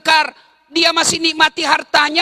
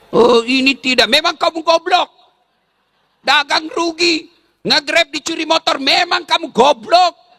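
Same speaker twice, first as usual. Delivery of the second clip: mock scolding husband; a husband berating his wife for a bad day. Mock angry scolding. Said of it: "Kata suamimu".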